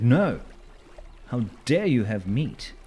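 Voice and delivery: militant vegan outrage. Acted. The game scolding him for cooking meat, mock outraged shout. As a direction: play the game as a furious vegan scolding you. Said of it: "and said".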